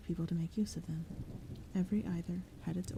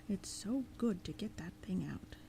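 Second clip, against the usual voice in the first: breathy relieved sigh, softer, almost whispered; 5 dB quieter than usual. A narrator's reading. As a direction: let the words out on a long relieved breath. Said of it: "it sighed".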